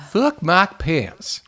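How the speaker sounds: slow, high bleating goat voice. Acted. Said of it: "it's the goat voice".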